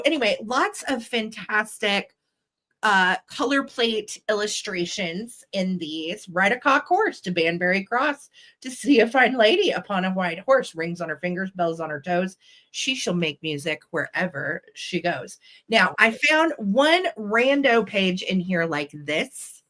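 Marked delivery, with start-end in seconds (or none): 6.3-15.4 nursery rhyme reading. A narrator's reading. Seller reads a picture-book rhyme to viewers, nursery rhyme reading. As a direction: recite it on the beat, easing down to the close. Reads Ride a cock horse.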